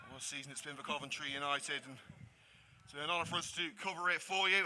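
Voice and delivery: slightly out of breath. Real, not acted. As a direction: talk a little winded. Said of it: "Apologies for out of breath".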